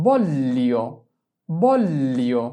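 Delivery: "বললিও" with the L held long before the glide; long gli sound. Shown as a demonstration. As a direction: lengthen the double L in "বললিও". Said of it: "যেহেতু এটা বলিও উচ্চারণ না".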